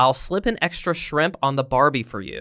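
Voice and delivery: ordinary talk, nothing marked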